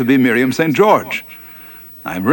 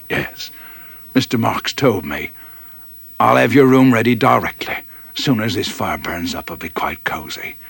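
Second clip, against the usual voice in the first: put-on old mess steward.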